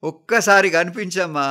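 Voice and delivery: anguished pleading, rising to a loud cry; desperate raving. A narrator's reading. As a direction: beg your mother in grief. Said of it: "అంటూ పలవరిస్తున్నాడు".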